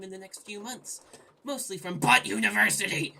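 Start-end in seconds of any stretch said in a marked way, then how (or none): 1.4-3.1 louder, gleeful punchline; hammed-up exclamation. Gamer reading a silly line from the game narration. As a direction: belt the line for laughs. Butt joke.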